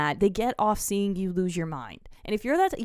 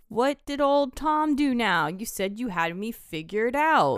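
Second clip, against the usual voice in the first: lightly voiced taunting old sailor; 4 semitones higher, slower than usual. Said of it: "Willem Dafoe's like".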